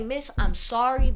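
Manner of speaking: loud, high mock plea; retold pleading apology. Worker to her mad manager, loud pleading apology. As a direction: re-enact a worked-up apology at full volume.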